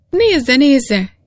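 eager repeat. A narrator's reading. Miner holds the coal to the lamp for the engineer, eagerly repeating. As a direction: thrust the coal toward the lamp. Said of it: "ismételte".

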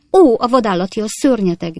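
high, loud cry of outrage; shrieking. A narrator's reading. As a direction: shriek it as an outraged schoolmistress, slightly restrained. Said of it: "visított egy másik tanárnő". (magas hangú, felháborodott visítás)

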